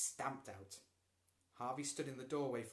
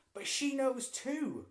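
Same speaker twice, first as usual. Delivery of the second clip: loud, high, slow yell; 14 semitones higher, 11 dB louder, slower than usual. A narrator's reading. Boy insisting to his mother, high slow yell. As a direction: drive it home at full voice. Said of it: "Lloyd yelled".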